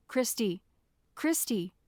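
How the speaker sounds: loud calling across the room. A narrator's reading. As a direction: call her name after her. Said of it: "heard Jeremy call out to me".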